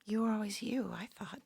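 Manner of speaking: soft whisper, trailing away. Real, not acted. Sister confides to the actress, fading whisper. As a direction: let it fade to nothing. Quiet moment with her sister.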